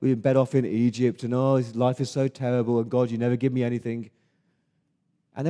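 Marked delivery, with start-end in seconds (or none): 0.0-4.1 mock-petulant whine; whining complaint. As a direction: grumble at God like a sulky brat. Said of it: "they started to grumble and whinge and complain".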